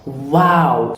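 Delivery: "wow" with lips in a circle; rounded W. Shown as a demonstration. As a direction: release the air into "wow". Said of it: "make a circle of your lips".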